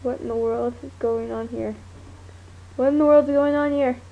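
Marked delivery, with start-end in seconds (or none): 2.8-4.0 louder, fast exclamation; louder fast repeat. Shown as a demonstration. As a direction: blurt it out quickly and louder. Repeats the line louder, faster.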